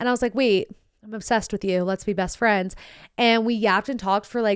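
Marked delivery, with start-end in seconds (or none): none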